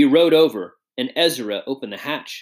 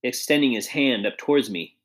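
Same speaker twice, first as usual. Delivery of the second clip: put-on a lightly higher, genial old gentleman; elderly statesman voice; 4 semitones higher than usual. Old statesman greets the letter writer, lightly voiced and genial. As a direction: greet the young man kindly, a touch raised.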